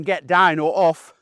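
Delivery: slow, deliberate telling-off; mock firm dog command. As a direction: say it slowly like a firm correction. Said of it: "when you're saying".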